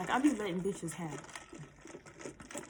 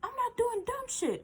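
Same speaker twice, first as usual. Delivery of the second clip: much higher, put-on snotty voice; mock snotty. Girlfriend defending herself, snotty mock voice. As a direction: sneer it like a brat. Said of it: "she's like".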